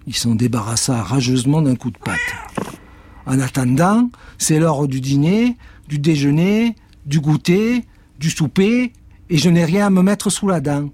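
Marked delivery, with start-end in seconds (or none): 3.2-10.9 monte de plus en plus aigu, fort; énumère les repas en geignant; chat qui réclame. Acted. Cat whines. (le chat réclame à manger, de plus en plus aigu)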